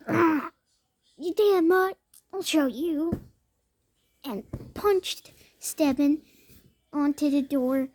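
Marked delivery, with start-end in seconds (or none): 0.1-3.2 angry threat. Acted. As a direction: shout the threat, furious. Strong dog wakes up furious.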